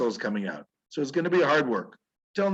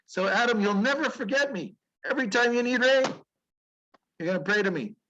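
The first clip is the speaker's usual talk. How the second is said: God speaking; 8 semitones higher than usual. Retold or imitated.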